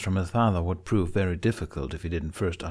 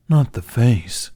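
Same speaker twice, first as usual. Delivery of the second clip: dragon voice; 3 semitones higher, 8 dB louder, slower than usual. A narrator's reading. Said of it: "Toothless stipulated".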